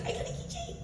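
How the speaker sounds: very high, soft, squeaky glee; tiny giddy squeal. Retold or imitated. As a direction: squeak it like a thrilled little fan. Acts out own delight at gift.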